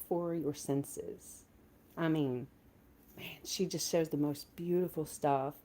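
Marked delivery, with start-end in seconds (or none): 3.2-5.6 whisper. Real, not acted. Whispered admiration.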